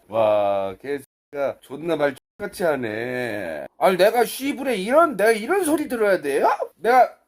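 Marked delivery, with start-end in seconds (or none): 3.8-7.2 loud, high-pitched outraged complaint; indignant protest. Real, not acted. Streamer insulted by a chatter, loud high indignation.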